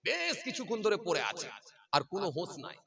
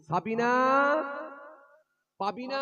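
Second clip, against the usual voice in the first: higher, louder call across the dark; 8 semitones higher, 8 dB louder than usual. Retold or imitated. Father searches at night, calling out loud. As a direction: call the girls' names into the night.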